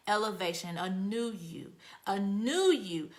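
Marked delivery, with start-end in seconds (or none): 2.1-3.1 slow breathy unvoiced whisper. Shown as a demonstration. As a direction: let it out slowly as a hushed promise. Says the phrase, then whispers it.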